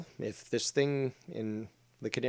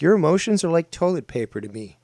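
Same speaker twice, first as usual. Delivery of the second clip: fast, loud contemptuous rant; loud scornful outburst; angry rant; 3 semitones higher, 7 dB louder, faster than usual. Real, not acted. Ranting against emotions.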